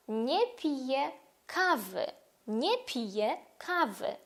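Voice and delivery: slow Polish Nie piję kawy; Polish model. Shown as a demonstration. Teacher modelling a sentence for repetition. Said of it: "Можемо сказати".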